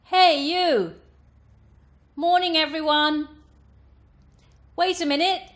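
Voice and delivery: loud, high, bright twang call; piercing twang. Shown as a demonstration. Coach demonstrating projection across larger spaces, piercing twang. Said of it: "piercing tone that can be useful for projecting voice".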